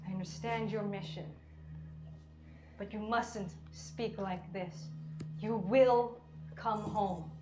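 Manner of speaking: a father hiding his tears, firm but quiet; stern father. Acted. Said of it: "and he says".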